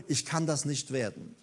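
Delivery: low, soft surrender; hushed, acted giving-up; resigned admission. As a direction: let the voice sink into resignation. Paul gives up after the outcry.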